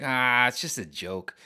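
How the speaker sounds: slow, easy dismissal; drawn out breezy just a joke; casual brush-off. Retold or imitated. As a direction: wave it away unbothered. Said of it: "just be like".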